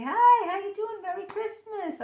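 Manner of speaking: high, sing-out party hello; small-talk greeting. Acted. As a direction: greet them in a high social voice. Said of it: "really small, small talk".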